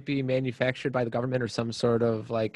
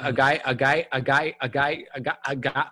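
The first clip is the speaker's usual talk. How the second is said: skipping record stutter. Pretend. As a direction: repeat a guy like a stuck record. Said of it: "had a little Devon Dudley moment there".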